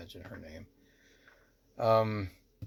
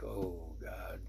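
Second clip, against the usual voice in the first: retold sinking 'oh God', much softer; quiet dismay; 2 semitones lower, 7 dB quieter than usual. Dismayed at forgotten night together.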